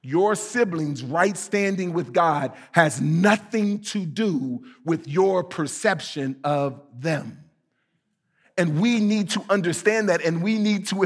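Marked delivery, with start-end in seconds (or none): 0.0-7.4 slow, weighted repeat of the point; slow emphatic repeat. Shown as a demonstration. Pastor repeating key truth to congregation, slowly. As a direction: say it again slowly so it sinks in. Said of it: "That, uh, that your siblings' right standing".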